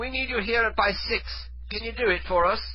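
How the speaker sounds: high-pitched British prank-call voice; fake British accent. Prank caller pressing the woman not to hang up, fake British accent. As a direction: plead in a put-on British accent. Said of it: "fake British accent".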